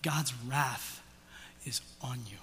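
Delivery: hushed, breathy warning whisper; a grave whispered warning to the congregation. Real, not acted. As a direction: lean in and whisper the threat. Pastor drops to warn listeners.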